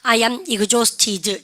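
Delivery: each word drawn out for students to repeat; slow, careful classroom demo sentence; slow model reading. Shown as a demonstration. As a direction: read it very slowly and clearly, like a teacher's model. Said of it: "시작".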